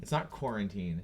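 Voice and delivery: QUARANTINE echoed back as the wrong version; rejected pronunciation. Retold or imitated. Parent disputing the kid's word, corrective. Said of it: "No, it's quarantine".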